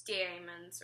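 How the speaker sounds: "daemons" said with an "ay" sound, DAY-muhnz; alternate pronunciation. Shown as a demonstration. Unsure how the book's word is said, trying "daemons" as DAY-muhnz. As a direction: sound out "daemons" slowly with a long A. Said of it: "pretty sure it's pronounced demons".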